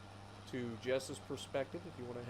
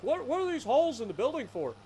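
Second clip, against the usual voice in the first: puzzled outsider; 12 semitones higher, 7 dB louder than usual. Retold or imitated. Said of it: "They're like".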